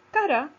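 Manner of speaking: "Cara" with a high, loud CA and falling "ra"; stress on CA. Shown as a demonstration. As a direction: punch the CA in "Cara". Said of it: "tiene la sílaba tónica en la sílaba".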